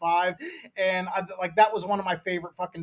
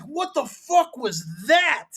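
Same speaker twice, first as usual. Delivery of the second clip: confused, hurt; 5 semitones higher, 3 dB louder, slower than usual. Retold or imitated. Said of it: "And he's like".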